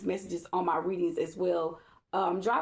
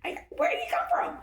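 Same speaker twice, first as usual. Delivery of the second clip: retold panic; faster than usual. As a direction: act out a startled fluster. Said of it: "I'm panicking at the same time".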